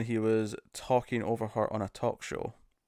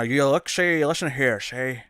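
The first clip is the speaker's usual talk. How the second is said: Jimmy Stewart impression; 4 dB louder than usual. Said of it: "Jimmy Stewart would be a good impression".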